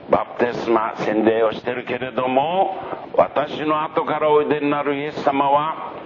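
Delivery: high, earnest proclamation; awed, humble prophet. Acted. Voices John addressing the crowd. (高めの声でうやうやしく告げる預言者)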